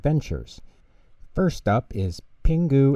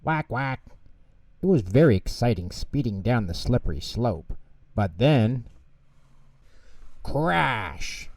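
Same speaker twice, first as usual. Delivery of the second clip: put-on lively children's storybook narration; reading to children. A narrator's reading. Narrator reading Pingu to children, lively storytelling. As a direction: read it like a bedtime story for kids.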